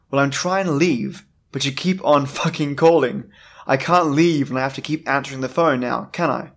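put-on lightly done stereotypical Canadian accent; exasperated reply in a Canadian accent. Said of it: "in a stereotypical Canadian accent".

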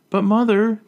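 high, pleading whine. A narrator's reading. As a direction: beg her mother, voice rising. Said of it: "Tatiana pleads".

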